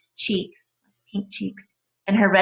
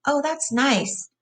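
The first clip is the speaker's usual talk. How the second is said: slow, higher and lost in pleasure; dreamy simple giant; 6 semitones higher, much slower than usual. A narrator's reading. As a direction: drift off into the feel of it. Lenny repeats, more lost in it.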